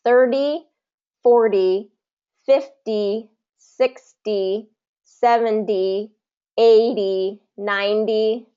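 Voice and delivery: Thirty to ninety each with a D tap; tap T count. Shown as a demonstration. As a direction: count the tens with tapped Ts. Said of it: "So that tap T there".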